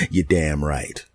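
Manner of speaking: slow, chuckling "You're damn right"; laughing catchphrase. Acted. Savouring his own punchline, slow and laughing.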